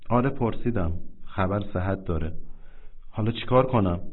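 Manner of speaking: softly, holding back tears; a hint of a lump in the throat; choked-up answer. Telling his friend about the news, quietly choked up. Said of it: "با بغض گفت".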